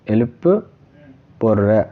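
এলুপোররা drawn out very slowly, syllable by syllable; slow pronunciation demo. Shown as a demonstration. Teacher drilling a Tamil word for students, very slow. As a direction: stretch এলুপোররা slowly so every sound is heard. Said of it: "Tamil ভাষায় হয়ে যাবে এলুপোররা".

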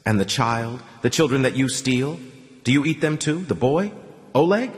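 ordinary delivery

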